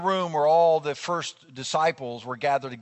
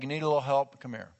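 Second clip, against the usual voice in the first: kind offer; faster than usual. Pretend. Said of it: "I don't think he was being sarcastic".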